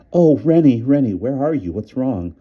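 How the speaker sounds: frightened woman wailing into the phone. A narrator's reading. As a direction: cry out his name, near tears. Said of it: "I heard myself wailing".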